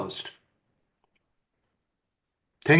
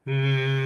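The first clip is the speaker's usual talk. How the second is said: simple hum. Shown as a demonstration. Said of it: "So a simple hum like".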